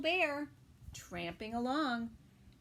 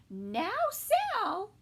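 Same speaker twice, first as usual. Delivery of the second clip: sal's mother calling; 9 semitones higher, 7 dB louder than usual. Acted. Mother voiced.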